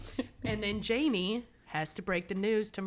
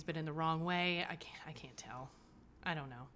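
whispered doubt; 2 semitones lower, 6 dB quieter than usual. Real, not acted. Trailing unsure aside.

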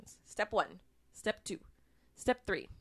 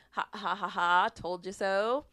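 mock gloating; 4 dB louder than usual. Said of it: "brag about it".

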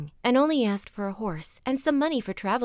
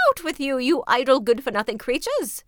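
higher, loud scolding raven; scolding old ravens; 4 semitones higher, 6 dB louder than usual. Acted. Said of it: "cried they".

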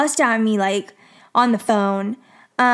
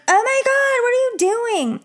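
shrieking coworker; 11 semitones higher than usual. Retold or imitated. Coworker shrieking at the narrator for throwing things on the floor, much higher mock shriek. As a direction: squeal it like she's appalled. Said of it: "And then she yelled".

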